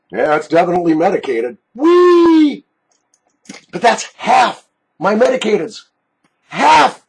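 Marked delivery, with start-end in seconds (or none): 1.7-2.6 excited whoop. Real, not acted. Jar finally opens. 6.5-7.0 excited. Real, not acted. Emphasizes half the collection.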